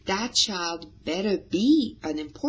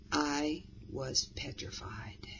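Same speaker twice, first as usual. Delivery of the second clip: slow, much softer frightened whisper; petrified whisper; 3 semitones lower, 9 dB quieter than usual. Shown as a demonstration. Teacher showing a scared story moment in a whisper. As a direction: breathe it out as if terrified. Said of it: "Silence can be very powerful here".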